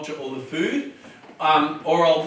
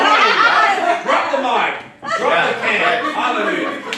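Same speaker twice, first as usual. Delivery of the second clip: laughing; 6 semitones higher, 6 dB louder, slower than usual. Real, not acted. Celebrates the punchline.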